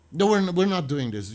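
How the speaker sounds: mother putting her foot down; firm refusal. Retold or imitated. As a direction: shut the idea down hard. Mother refusing son's plan.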